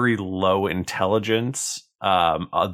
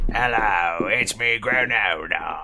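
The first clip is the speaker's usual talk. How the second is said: put-on lightly accented character greeting; a hint of a put-on accent; Granona; slower than usual. Game master greets the players as the quest giver, light put-on accent. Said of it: "I don't remember if this was my accent".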